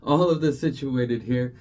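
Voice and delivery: breathless, laughing between words; catching breath after rushing. Real, not acted. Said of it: "I'm out of breath".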